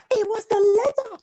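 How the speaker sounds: storyteller marveling at the letter; amazed discovery. A narrator's reading. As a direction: announce it in delighted surprise. Second discovery after gasp.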